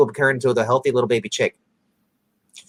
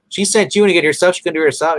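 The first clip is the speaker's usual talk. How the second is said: mocking; 5 semitones higher, 4 dB louder, faster than usual. Mocking the mayor's errand.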